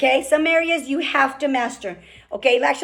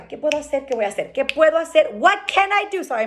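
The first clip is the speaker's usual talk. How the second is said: ordinary talk, nothing marked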